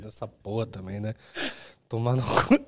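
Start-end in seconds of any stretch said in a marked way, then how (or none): 1.9-2.5 hiccuping mid-curse; hiccups. Real, not acted. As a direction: speak through hiccups. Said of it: "tô com soluço agora".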